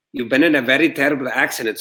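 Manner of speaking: a light Filipino accent, mild imitation. Nurse telling him about his accident, light Filipino accent. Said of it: "a nurse says to me in an accent, which later I learned was Filipino".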